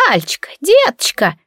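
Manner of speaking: put-on drawn-out fond greeting from an old woman; a hint of a creaky ninety-year-old. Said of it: "проскрипела старушка своим громким голосом".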